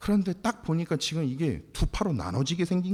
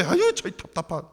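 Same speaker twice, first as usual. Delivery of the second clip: exasperated groan, a little higher; mildly raised, fed-up sigh; 4 semitones higher, 4 dB louder than usual. Retold or imitated. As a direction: groan at someone's frustrating choice. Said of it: "너무나, 너무나 답답한 거예요".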